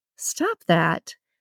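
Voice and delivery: firm, cautionary delivery. Julia shoves Kim's hand away, warning. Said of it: "Julia warned".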